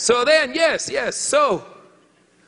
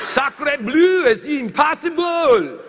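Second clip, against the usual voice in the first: laughing disbelief; 6 semitones higher, 4 dB louder, slower than usual. Acted. Repeats exclamation, laughing.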